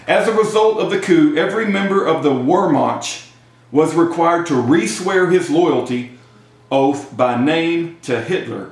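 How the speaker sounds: measured read-aloud of a history text. Real, not acted. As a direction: read it out phrase by phrase.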